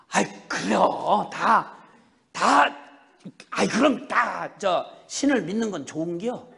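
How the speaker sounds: drawn-out, noncommittal Chungcheong mother; lazily evasive Chungcheong lilt; easygoing Chungcheong dialect. Retold or imitated. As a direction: imitate a stalling Chungcheong reply. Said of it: "충청도 말로 느물느물해".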